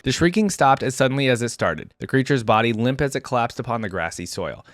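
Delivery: measured story-reading voice; story narration. A narrator's reading. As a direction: read it like an audiobook action scene. Reads story aloud.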